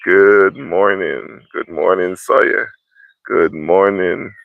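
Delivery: loud, slow sing-song good morning; drawn-out booming greeting. Real, not acted. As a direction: stretch each good morning out wide. Streamer greeting viewer Sawyer by name.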